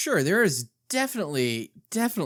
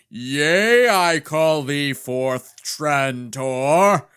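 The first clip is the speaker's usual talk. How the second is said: loud, slow raspy smoker's growl; 7 dB louder, much slower than usual. Pretend. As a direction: gravel up your voice like a chain smoker. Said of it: "Trying to get my best smoker's voice going here".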